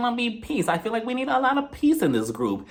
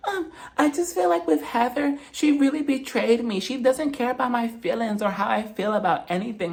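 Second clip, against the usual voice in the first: mock sob story; 4 dB quieter than usual. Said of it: "starts off with her sob stories".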